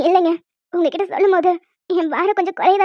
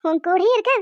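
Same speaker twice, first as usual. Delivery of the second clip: excited; 3 semitones higher than usual. Acted. Sister excited, teasing.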